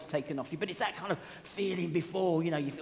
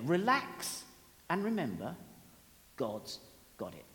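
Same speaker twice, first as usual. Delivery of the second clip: calm reassurance; 2 semitones lower than usual. Real, not acted. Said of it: "I name my source there".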